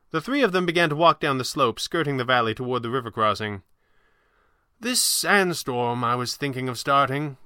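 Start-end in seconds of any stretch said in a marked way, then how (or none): 4.8-7.4 slow, slightly higher sorcerer's voice; unhurried, theatrical magician; old magician. Acted. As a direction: muse slowly as the old showman. Voices Falcone.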